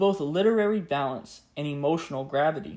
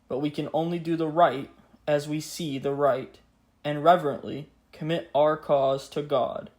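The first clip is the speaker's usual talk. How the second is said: grave 1940s war broadcast. Acted. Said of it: "Let us now hear the words of the king, just as they were spoken".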